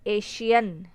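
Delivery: "एशियन" with a clear sh in the middle; sh sound. Shown as a demonstration. Teacher after spelling the word, "एशियन" with clear sh. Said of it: "श का sound आ रहा है".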